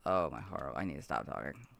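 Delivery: ordinary delivery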